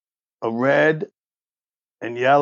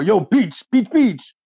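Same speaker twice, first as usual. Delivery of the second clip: calling a dog; 7 semitones higher than usual. Acted. Raymond calling the dog over, high-pitched call.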